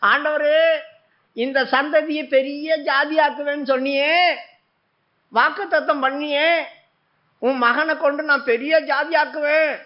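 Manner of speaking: mock wail of a desperate mother; a distraught mother's half-acted lament; imitating a crying plea. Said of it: "அப்படி சொல்லி அழுதாங்க".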